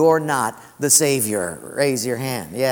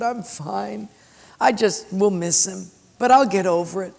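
a touch higher, cheerful widow; light widow voice; 4 semitones higher than usual. Retold or imitated. Lightly voiced widow reassuring the pastor, brushing it off. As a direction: play the widow brushing off his pity. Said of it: "She said".

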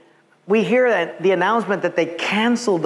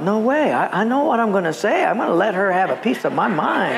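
raised, indignant retort; mock defiance; 4 semitones higher than usual. Traveler answering God about the airline lady, mock defiant. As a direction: argue back, lightly hammed-up. Preacher acts defiant inner reply.

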